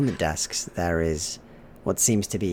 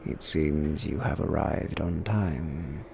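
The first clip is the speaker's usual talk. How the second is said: slow, measured vicar voice; an eight-foot vicar speaking slowly; looming vicar; 3 semitones lower, slower than usual. Acted. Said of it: "they simply go".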